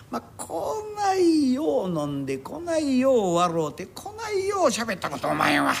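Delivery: put-on slow, teary, drawn-out drunken sentiment; a drunk getting weepy over old times; tearful drunk. Drunk customer tells his friend he has never had such fun: slow tearful drawl.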